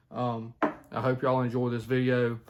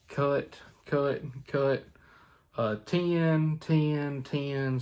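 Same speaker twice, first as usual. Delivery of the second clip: call syllables demo; 3 semitones higher, much slower than usual. Shown as a demonstration. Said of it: "you hear a lot of people say".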